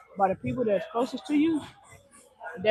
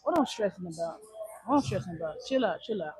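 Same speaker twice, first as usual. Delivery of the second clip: calming himself; 2 semitones lower, 4 dB quieter than usual. Retold or imitated. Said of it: "I'm just trying to chill and be like".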